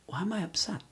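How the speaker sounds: unvoiced whispered question to himself; a hushed whisper asking himself why he is upset. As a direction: breathe the question out, no voice.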